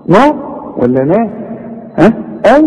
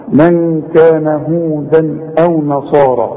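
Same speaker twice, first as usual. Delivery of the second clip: slow Quranic recitation; measured tajweed reading; recite slowly; slower than usual. Shown as a demonstration. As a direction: join the words in a slow chant. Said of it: "وإذا وصلت".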